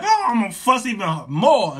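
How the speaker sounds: loud comic grumbling outburst; exaggerated retold fussing; mock upset. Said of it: "And I got upset".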